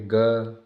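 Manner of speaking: "ग" held long, little air released; low-breath consonant. Shown as a demonstration. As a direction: sound out "ग" alone without a puff. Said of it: "अपन कम हवा". ("ग" को कम हवा से, खींचकर)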